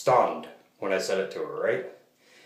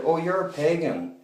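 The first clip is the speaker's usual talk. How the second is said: imitating the cashier; 8 semitones higher than usual. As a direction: lift the voice to play the surprised cashier. Retelling the cashier's words.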